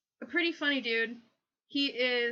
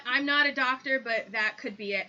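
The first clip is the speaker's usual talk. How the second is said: ordinary talk, nothing marked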